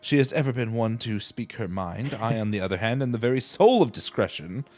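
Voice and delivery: lightly voiced grand gentleman; formal noble voice. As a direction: read it like a polished aristocrat. Voices game dialogue.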